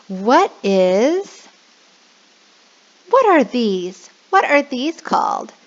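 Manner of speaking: lightly voiced kid-teacher question. Shown as a demonstration. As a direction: ask the class like an ESL teacher. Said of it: "So you can say".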